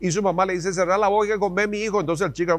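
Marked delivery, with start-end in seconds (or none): 0.7-2.0 lightly voiced stern mom; ordering mom. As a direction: order him like an impatient mother. Mom's order, acted.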